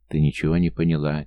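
plain reading voice

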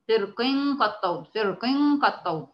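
فرق run into قد طود with the qaf's vowel lost; common mistake, qaf unvowelled. Shown as a demonstration. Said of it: "بيسكنوا القاف".

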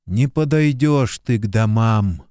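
ordinary delivery, nothing marked

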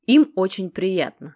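slow, sugary, poisonous politeness; sickly sweet venom. A narrator's reading. Sasha coldly greeting the flirting Genych, sugary venom. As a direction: drip sarcasm through a sweet smile. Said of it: "приторным ядом разлился".

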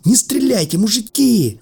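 high-pitched plea for mercy; panicked wail. Acted. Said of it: "завопило в кустах".

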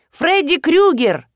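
high, slow drawn-out yell; slow shout. A narrator's reading. Guy shouting into the phone to scare Arina, slow high yell. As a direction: stretch the name into a spooky yell. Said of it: "закричал ещё какой-то парень".

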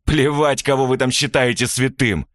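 a touch of cynical scorn; villain mocking the dead man's memory; cynical sneer. A narrator's reading. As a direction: sneer it with a half-laugh. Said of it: "цинично усмехнулся Евгений".

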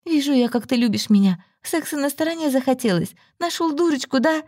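high, sarcastic yelling; woman accusing her cheating lover, shouting; shouting accusation. A narrator's reading. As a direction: hurl the accusation at him. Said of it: "кричала она ему".

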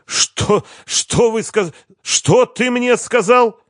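high, breathy, stammering disbelief; stunned boss gasping; breathless shock. A narrator's reading. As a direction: choke out the question, slowed. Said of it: "чуть не задохнулся".

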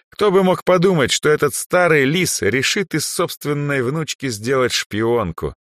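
high, loud marvelling; amazed archmage. Acted. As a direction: marvel at the sly old fox. Andre marvels at old fox. (изумлённый архимаг)

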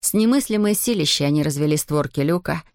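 usual speaking voice

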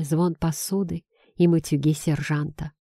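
ordinary delivery, nothing marked

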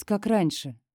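plain reading voice

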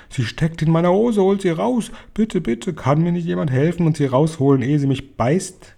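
high, pleading mock cries, easing down at the end; panicked screaming. A narrator's reading. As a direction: beg for rescue in a high, frantic voice. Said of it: "noch immer schrie".

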